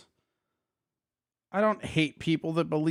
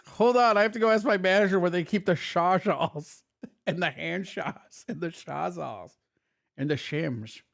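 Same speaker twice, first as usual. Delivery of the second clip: lisp impression. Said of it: "to hear his lisp".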